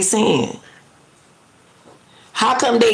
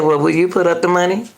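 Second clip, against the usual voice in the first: quick quoted question; faster than usual. Retold or imitated. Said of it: "just like she said".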